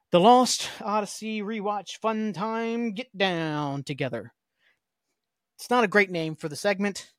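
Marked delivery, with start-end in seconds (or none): 0.1-4.3 mock announcer. Announcing segment title.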